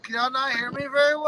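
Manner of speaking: distant, faint phone audio; talking far from the phone; phone held away. Real, not acted. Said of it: "it sounds like you're far away from the, the phone".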